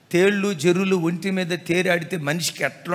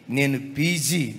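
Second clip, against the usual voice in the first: slow, low lightly voiced proud wife; a hint of a boastful wife; haughty wife; 6 semitones lower, 3 dB quieter, much slower than usual. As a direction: drag it out with mild smugness. Wife's haughty reply voiced.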